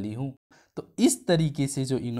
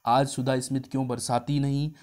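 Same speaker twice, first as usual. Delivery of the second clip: with great affection; a hint of a lover's tenderness; lovingly. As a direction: coax her lovingly. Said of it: "बड़े प्यार से बोल रहा".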